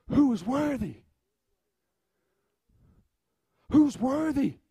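crying out. Acted. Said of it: "begins to cry out".

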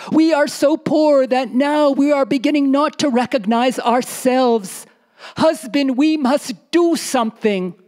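a storyteller voicing a poor, pleading wife. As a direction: plead with your husband about being poor.

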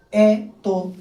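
এ, তো said as two separate beats; two-syllable demonstration. Shown as a demonstration. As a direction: break এ, তো apart, one syllable at a time. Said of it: "দুইবারে আমরা উচ্চারণ করছি".

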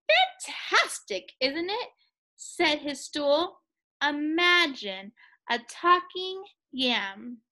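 slow, drawn-out mocking voice; slow sarcastic stool. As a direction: drag it out in mock wonder.

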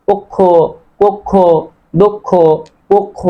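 পক্ষ, কক্ষ, দক্ষ ending in a clear "o"; final o sound. Shown as a demonstration. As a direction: say পক্ষ as "pokkho", with kkh and final o. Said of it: "শেষে আবার ওকার হচ্ছে".

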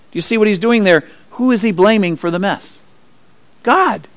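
normal talking voice

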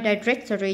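"directory" stressed on the second syllable. Shown as a demonstration. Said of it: "nhấn âm hai".

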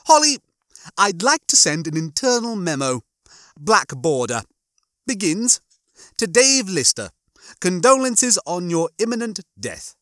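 high-pitched, mock-official dictation; Rimmer. Rimmer dictates Holly a condolence memo, mock-official. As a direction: call out loudly, then dictate in short pompous phrases.

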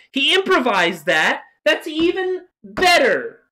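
overjoyed at the news; delighted. Real, not acted.

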